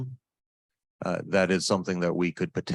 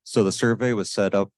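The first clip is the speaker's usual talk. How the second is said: louder, projecting to be heard; to someone hard of hearing; 5 dB louder than usual. Real, not acted. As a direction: speak up so the back hears. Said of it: "Can you speak up".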